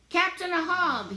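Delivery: high, loud call across the beach; yelling. A narrator's reading. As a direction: call out for the cat. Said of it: "he yells".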